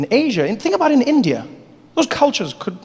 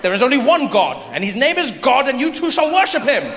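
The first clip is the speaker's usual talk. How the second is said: pompous; 3 semitones higher than usual. Acted. British officer.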